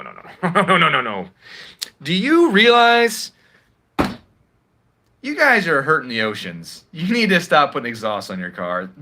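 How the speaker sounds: wag a finger like a prissy regulator; mocking EPA official. Mocking the EPA scolding car owners, lightly voiced. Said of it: "They'll be like".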